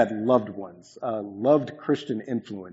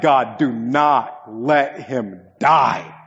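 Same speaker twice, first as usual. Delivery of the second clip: louder, slow pleading; pleading prayer; 2 semitones higher, 7 dB louder, much slower than usual. Retold or imitated. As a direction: drag it out like a desperate prayer. Retold desperate prayer.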